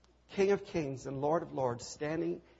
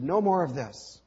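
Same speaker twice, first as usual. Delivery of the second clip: sharp, louder stop order; firm command; 6 dB louder than usual. Acted. Jesus to his disciples, a firm loud command. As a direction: halt the fighting with one firm call. Jesus stops the sword fight.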